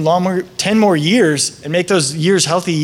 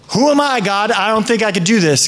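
doubting Moses; 2 semitones higher than usual. Retold or imitated. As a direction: voice Moses unsure of himself. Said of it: "Moses says".

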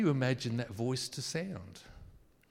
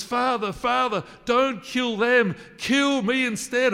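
much higher, loud desperate plea; pleading Son; 10 semitones higher, 8 dB louder than usual. Pretend. Jesus pleads with the angry Father, high and desperate. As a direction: beg the father to spare them.

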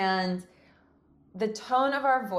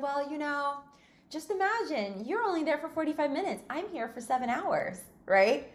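lightly sweet, higher and gentle; 6 semitones higher than usual. Retold or imitated. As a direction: sweetly point it out to the impatient lady. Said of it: "in a very sweet way".

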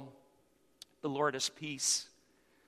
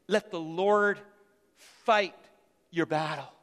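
preached louder; 4 dB louder than usual. Acted. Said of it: "say something to you".

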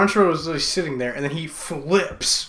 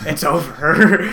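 slow, louder dramatic villain line; dramatic Travolta; 8 dB louder, slower than usual. Retold or imitated. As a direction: ham up the movie villain. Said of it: "after he did the Travolta scene".

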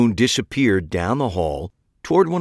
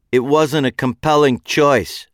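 flat; 5 semitones higher, 4 dB louder than usual. A narrator's reading. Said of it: "she said flatly".

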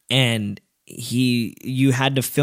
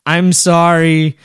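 sorry; 5 semitones higher, 8 dB louder, much slower than usual. Retold or imitated. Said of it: "I'm like".

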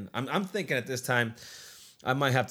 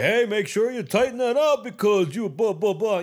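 higher, louder mock instruction voice; mock bossy trainer; 9 semitones higher, 6 dB louder than usual. Mocking how staff get trained to tighten bracelets, higher and louder. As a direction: ham up a strict trainer giving orders. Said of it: "through training, they're like".

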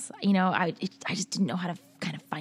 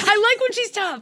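laughing; 14 semitones higher, 7 dB louder than usual. Real, not acted. Laughing excitedly.

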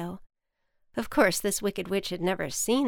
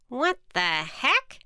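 witch voice; 5 semitones higher, 3 dB louder, slower than usual. Acted.

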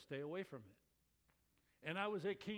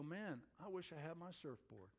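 surfer dude; 2 semitones lower, 7 dB quieter than usual. Retold or imitated. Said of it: "you don't just stand there and go".

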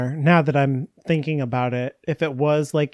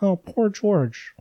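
higher, slow pitying coo; sympathetic; 6 semitones higher, slower than usual. Retold or imitated. Reacting to sad George while reading, slow pitying coo. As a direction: coo over him with pity. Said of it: "I was like".

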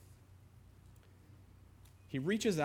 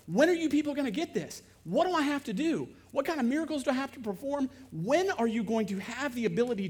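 higher, louder exasperated cry; indignant outburst; 6 semitones higher, 4 dB louder than usual. Acted. Jesus exasperated that people do not believe. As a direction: let the frustration burst out.

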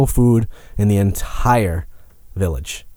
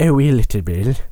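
bright squeaky sing-song welcome; 3 semitones higher than usual. Pretend. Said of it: "Is that your character voice?".

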